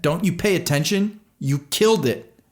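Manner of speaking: very high, loud, raw scream; screaming accusation. A narrator's reading. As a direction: accuse the driver.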